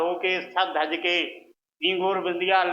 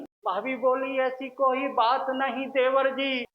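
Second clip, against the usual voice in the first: higher-pitched verse recitation; shayari recital; 6 semitones higher than usual. Acted. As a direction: recite the rhymed reply, pitched up. (ऊँचे सुर में शायरी पाठ)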